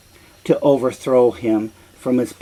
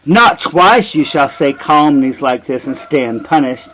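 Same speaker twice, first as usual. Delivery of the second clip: a louder warning, each word pressed; threatening king; 5 dB louder than usual. Acted. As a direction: threaten him with royal anger. Oedipus threatens the prophet.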